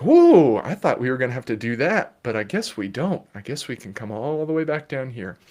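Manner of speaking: mock surprised kid calming down; surprised relief. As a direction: let the child's brain exhale in relief. Child's brain relieved.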